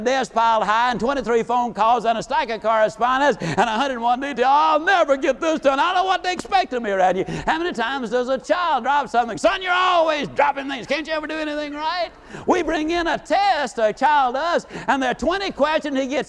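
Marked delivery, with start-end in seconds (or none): 4.5-7.2 higher-pitched, overwhelmed grumble; mock exasperated complaint. Office worker facing a piled desk, mock exasperated. 9.4-12.1 higher-pitched, exasperated telling-off; mock parental scolding. Parent to child who dropped something, mock scolding.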